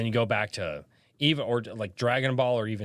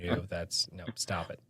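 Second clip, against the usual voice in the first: mock hushed scolding; 4 semitones lower, 6 dB quieter than usual. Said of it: "My wife is like".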